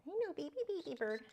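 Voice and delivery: high soft beeps to the parrot; tiny parrot voice; squeaky bird talk. Real, not acted. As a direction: chirp back at him. Beeping back at the bird.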